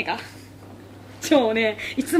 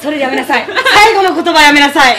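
laughing scold; 8 dB louder than usual. Real, not acted. Scolding co-host while laughing.

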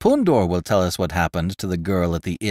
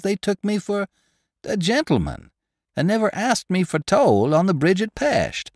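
much higher, proud bragging voice; boastful gingerbread man; 8 semitones higher than usual. Acted. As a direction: puff up about the silver buttons.

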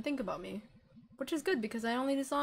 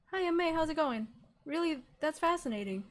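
practiced greeting; 6 semitones higher than usual. Pretend. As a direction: try out a cheerful party opener. Rehearsing party small talk.

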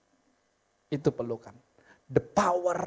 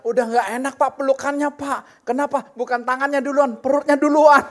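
a wife whining about the hug, pitched higher and a bit louder; mock wife complaint; 6 semitones higher, 6 dB louder than usual. Preacher mimics a wife grumbling to her husband, mock whine. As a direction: lightly play the nagging wife, higher. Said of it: "seorang istri berkata".

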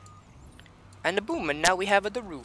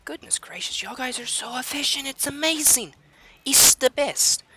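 rising to a high squeal; excited gushing; 9 semitones higher, 4 dB louder than usual. Acted. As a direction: gush louder and higher.

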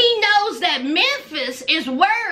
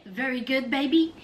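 put-on low, Borat-style accent, crooning baby; Borat impression; 7 semitones lower than usual. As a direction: ham it up like Borat, smug and pleased. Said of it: "He sounds just like Borat".

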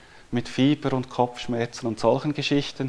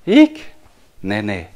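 put-on toddler voice; 4 semitones lower, 7 dB louder than usual. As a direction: imitate a small daughter answering. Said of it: "hat sie gesagt".

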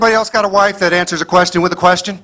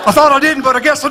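meek husband giving in; 9 semitones higher than usual. Pretend.

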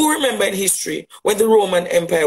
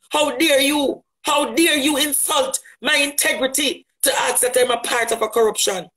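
indignant shout; 3 semitones higher than usual. Real, not acted. Indignant reply, rising to a shout.

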